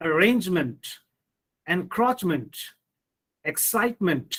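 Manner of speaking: arRANGEment, enCROACHment, exCITEment; stress before the suffix. Shown as a demonstration. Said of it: "the syllable that comes immediately before these suffixes".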